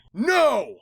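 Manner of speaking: sharp high cry of No; cried out. Acted. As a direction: narrator cries out to stop Dash changing, high cry. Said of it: "I cried".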